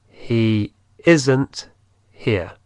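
He isn't here, stress on isn't; model sentence. Shown as a demonstration. Teacher models the negative sentence for learners. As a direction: say it clearly for copying. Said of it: "¿cómo sería?".

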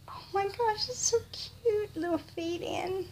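high-pitched adoring coo. Real, not acted. Cooing over baby clothes.

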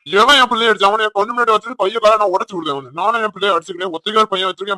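loud, high angry shouting; furious shout. Acted. Father shouting at the in-laws who hit his son, furious. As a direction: roar it at whoever hit your boy.

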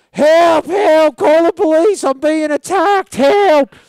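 high, full-voiced cries for help; imitated screaming. Pushed drunk guy crying out in the street, imitated screaming. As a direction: scream out like an attack victim, hammed-up. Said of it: "the guy starts screaming".

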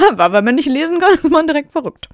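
high, loud, laughing objection; amused protest. Real, not acted. Reader objecting to the story's logic, laughing and loud. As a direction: protest through a laugh, pitch shooting up.

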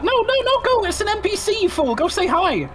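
high, urgent, teasing the player; excited nudge to go talk; excited urging. Real, not acted. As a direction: push him on, half laughing.

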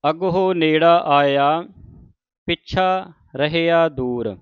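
measured verse reading with deliberate phrase breaks; scripture recitation. Acted. Teacher models Farid's verses for the congregation, measured recitation. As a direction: recite each phrase, then pause.

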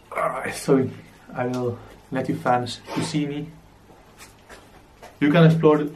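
talking through a bandana; words muffled behind cloth over mouth. Real, not acted. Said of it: "I'm sorry that you can't hear".

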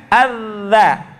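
ADZA with the tongue at the teeth; light za. Shown as a demonstration. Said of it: "Lidahnya nyentuh ke". ("Adza" lidah ke gigi)

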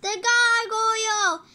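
high, loud, very drawn-out cry; stretched-out heroic shout; superhero battle cry. Acted. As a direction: proclaim your hero name to the street. Kid cries out hero name.

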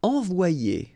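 "Envoyer" said ahn-vwah-YAY; "Envoyer" the French way; French word. Shown as a demonstration. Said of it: "you've got this Y here".

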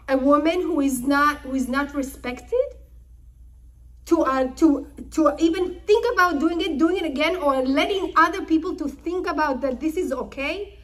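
heated protest. Retold or imitated. Sons argue with father.

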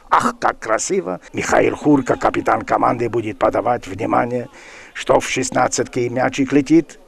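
ordinary delivery

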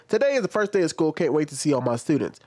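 quick sarcastic reread of the teacher's tweet; mocking reread. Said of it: "Keep that in mind, that last part right there".

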